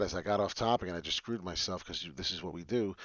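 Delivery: ordinary delivery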